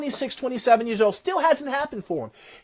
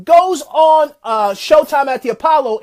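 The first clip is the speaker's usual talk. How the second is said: louder and higher, nearly shouting the big moment; excited climax; 4 semitones higher, 6 dB louder than usual. Real, not acted. Speaker tells the crowd of the big break, excited and loud. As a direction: belt out the triumph.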